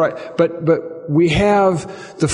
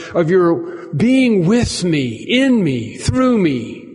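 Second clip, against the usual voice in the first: a raised, earnest plea, with "please" leaned on; pleading prayer; 4 semitones higher than usual. Shown as a demonstration. Pastor models a sorrowful believer's prayer, earnest pleading. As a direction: beg the Lord for joy, slowing on "please give me joy". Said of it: "to pray in the midst of your sorrow".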